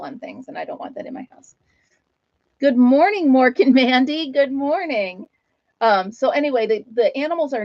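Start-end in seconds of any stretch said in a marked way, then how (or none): 2.6-5.3 greeting the pets. Real, not acted.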